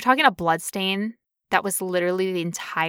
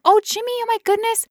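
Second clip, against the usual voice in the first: high, airy fake-innocent voice; bright hostess voice covering a mess; breezy nonchalance; 10 semitones higher, faster than usual. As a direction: act like it's nothing at all. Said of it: "so nonchalant".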